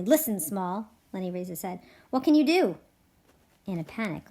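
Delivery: lively read-aloud with voiced ranch characters; story narration. A narrator's reading. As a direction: read it to the class like a story, giving each man a voice. Teacher reads the novel aloud.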